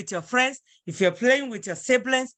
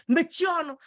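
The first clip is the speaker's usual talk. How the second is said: higher-pitched, disrespectful order; rude, disrespectful; 7 semitones higher than usual. Shown as a demonstration. Teacher showing what not to say to a senior, rude. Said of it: "you're disrespecting that person".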